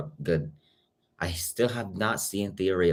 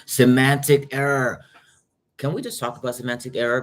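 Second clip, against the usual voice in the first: excited; 6 semitones higher, 6 dB louder than usual. Real, not acted. Streamer spotting a favourite show in chat, excited. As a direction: draw out the name with delight.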